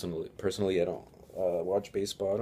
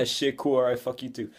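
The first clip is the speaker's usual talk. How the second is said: higher-pitched, scoffing laugh into words; laughing retort; 4 semitones higher, 4 dB louder than usual. Retold or imitated. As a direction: laugh it off defiantly. Retold retort leaving the bus.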